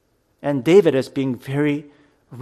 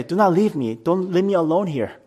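desperate; 6 semitones higher than usual. Retold or imitated. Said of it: "He sounds desperate".

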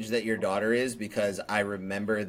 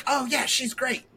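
higher, breezy stranger voice; lightly mocked stranger. Mimicking internet strangers, higher and airy. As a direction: chirp it like a casual fan. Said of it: "rando internet people who are like".

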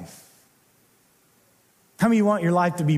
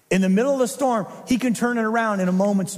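louder refrain; faster than usual. Acted.

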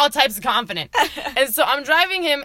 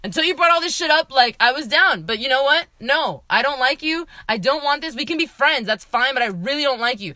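emphatic, higher-pitched retold rejection; insistent, mildly bitchy brush-off; 3 semitones higher than usual. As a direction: shut them down firmly, retelling it. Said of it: "I was being such a bitch".

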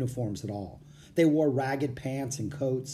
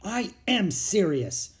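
slow, higher, breathy insistence; voice rising; 7 semitones higher, slower than usual. A narrator's reading. Girl protesting to her scolding brother, voice rising. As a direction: push back with a rising half-whisper. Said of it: "her voice rising".

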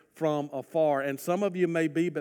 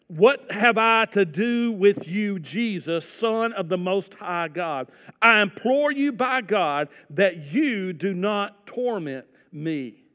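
louder, slow pleading demon voice; demon crying out; 3 semitones higher, 5 dB louder, slower than usual. Acted. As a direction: voice the demon begging. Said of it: "he cried out with a loud voice".

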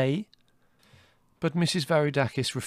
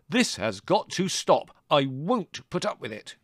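high, slow, emphatic outrage; angry shout; 6 semitones higher, 4 dB louder, slower than usual. A narrator's reading. Son protesting to his mother on the veranda, shouting slowly. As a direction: lay down the law loudly, word by word. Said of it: "he shouted".

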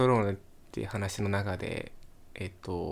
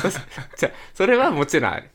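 「それはもちろんある」 louder, more firmly; 「もちろん」を強く言い直す; emphatic insistence; 7 semitones higher, 7 dB louder, faster than usual. Real, not acted. (強く断言して)

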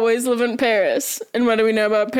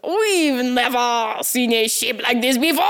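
mock French accent. Shown as a demonstration. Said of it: "let me use the right accent".

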